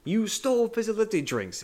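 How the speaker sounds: a shrill furious accusation; imitating Wonka yelling. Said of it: "he is absolutely yelling".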